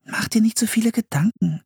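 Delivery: put-on high-pitched, reassuring girl's voice; reassuring sister. A narrator's reading. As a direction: reassure your brother as Anne. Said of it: "beruhigte Anne ihren Bruder".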